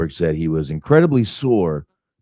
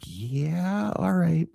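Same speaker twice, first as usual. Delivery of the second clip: high shrug voice; 11 semitones higher, 3 dB quieter, much slower than usual. Retold or imitated. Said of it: "they're all just like".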